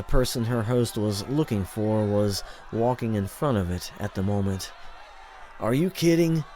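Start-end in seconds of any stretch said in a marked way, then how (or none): 5.6-6.4 high incredulous gasp of a question; gasped disbelief. A narrator's reading. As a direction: catch your breath in disbelief. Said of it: "the unknown voice gasped".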